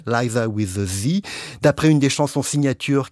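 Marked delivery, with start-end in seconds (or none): 0.1-1.2 the title said in English, lower, ending in a rise on "Z"; English title. Shown as a demonstration. French radio host quoting the English show title in English. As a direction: switch into English for the show's title. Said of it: the host naming the title in French.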